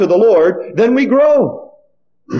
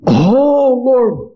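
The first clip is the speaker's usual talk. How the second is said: mildly acted prophet's objection; protesting excuses; 2 semitones higher than usual. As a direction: plead the case against them, point by point. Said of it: "all the excuses started coming".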